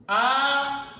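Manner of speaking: "Avião" with the stressed "ão" standing out; careful pronunciation. Shown as a demonstration. Teacher showing students which vowel in "Avião" is stronger, careful. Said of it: "pronunciei com maior intensidade a letra A".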